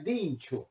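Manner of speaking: dincho said as an exclamation, DIN-chu, with the ch as in Italian ci. Shown as a demonstration. Teacher showing the Piedmontese exclamation dincho. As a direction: exclaim dincho with surprise at something serious. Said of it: "oh, che cosa seria".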